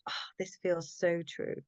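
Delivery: soft unvoiced whisper of wonder; whispered awe. Recalling her first book, she whispers in quiet awe. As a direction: breathe it out like a secret discovery. Retold moment of recognition.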